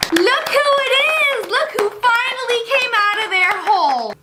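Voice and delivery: high, mocking welcome; teasing family voice. Family at dinner greeting the recluse, high teasing call.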